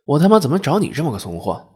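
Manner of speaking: fed-up, forceful scolding; exasperated cursing. Acted. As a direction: curse your useless husband. Wife cursing her useless husband.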